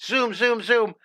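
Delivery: high, loud whoops and zooms; noisy whooping. Retold or imitated. Young host whooping at Bob beside him, loud and high. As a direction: whoop and zoom like a rowdy kid. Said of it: "making all kinds of noise and going".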